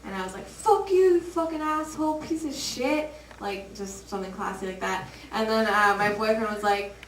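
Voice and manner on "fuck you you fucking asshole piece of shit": acted angry retort. Acted retort to man who slapped her.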